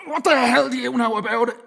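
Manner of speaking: high, sharp snarl; fierce retort. A narrator's reading. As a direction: turn on him fiercely. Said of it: "fiercely turning on the man".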